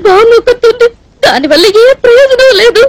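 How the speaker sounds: sobbing out her loneliness, voice cracking; crying. Acted. Girl crying to the man that she has nobody. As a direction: weep through the words. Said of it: "ఎందుకు ఏడుస్తున్నట్టు ఇప్పుడు నువ్వు?".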